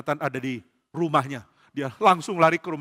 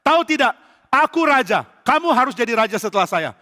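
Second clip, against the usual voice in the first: high, loud furious scolding; very angry king; 7 semitones higher, 5 dB louder than usual. Acted. Saul insisting his son succeed him, furious shouting. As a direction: thunder at a disobedient son. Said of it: "Saul marah sekali".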